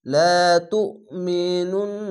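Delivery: তুমিনুন্না with the নুন্না held nasal for a beat; slow recitation holding the nasal in নুন্না; nasal ghunna. Shown as a demonstration. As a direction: hum the ghunna in তুমিনুন্না, slowly. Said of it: "এখানে ওয়াজিব গুন্না".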